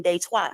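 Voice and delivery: Detroit said French-style as day-TWAH; French pronunciation. Shown as a demonstration. Speaker showing listeners the city's French name, French pronunciation of Detroit. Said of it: "That's how you say it in French".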